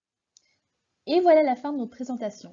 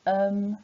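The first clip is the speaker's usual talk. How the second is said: drawn-out hesitant "euh"; level, lingering um sound; hesitation filler; 2 semitones lower than usual. Shown as a demonstration. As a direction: hold a filler sound as if searching for words. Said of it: "supprimez les".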